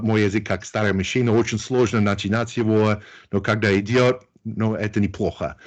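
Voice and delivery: speaking Russian. Shown as a demonstration. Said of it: "I could say something in Russian if you like".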